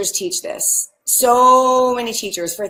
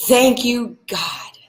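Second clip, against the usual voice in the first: soft mantra; slower than usual. Shown as a demonstration. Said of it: "And here's the mantra".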